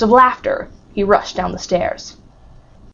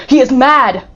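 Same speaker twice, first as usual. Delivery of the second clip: horrified; 4 semitones higher, 5 dB louder than usual. A narrator's reading. Monte Cristo horrified.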